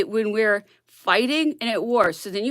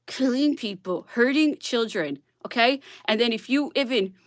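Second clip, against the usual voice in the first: normal talking voice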